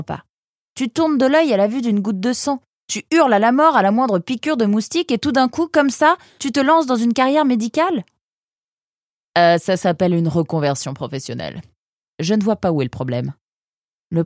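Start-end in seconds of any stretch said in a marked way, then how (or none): 0.7-8.0 higher, rising disbelief all through; can't believe what he's hearing; incredulous. A narrator's reading. Friend scolding Mazen's new medical career, incredulous.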